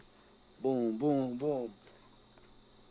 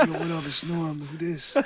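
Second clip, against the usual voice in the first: put-on New York accent. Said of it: "with my voice like this".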